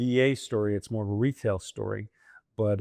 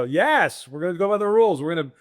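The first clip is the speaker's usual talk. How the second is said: mock by-the-book insistence; 6 semitones higher, 4 dB louder than usual. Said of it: "I go".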